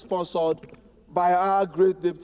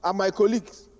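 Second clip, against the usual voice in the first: campaign voice; 3 semitones higher than usual. Real, not acted. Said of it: "Can I use my campaign voice".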